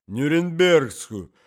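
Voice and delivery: loud, high, drawn-out word; cough-strained old man. Acted. Old husband describes a doll to his wife, straining between coughs.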